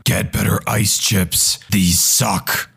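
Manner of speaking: low, growling demonic voice; satanic voice. Retold or imitated. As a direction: growl it like a possessed wife in labor. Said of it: "told me in a satanic voice".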